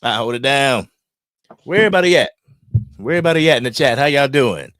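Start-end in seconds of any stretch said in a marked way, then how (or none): 1.6-4.7 calling out. Real, not acted. Streamer calling out to his missing viewers, loud and bright. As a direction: hail the chat from across the stream.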